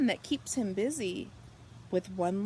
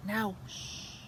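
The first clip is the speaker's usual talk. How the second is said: gentle shush; 6 dB quieter than usual. A narrator's reading. Hushing at bedtime.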